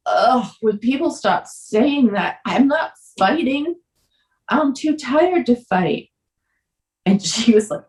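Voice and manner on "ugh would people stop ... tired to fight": tearful protest. Retold or imitated. Weary protest, tearful, retold.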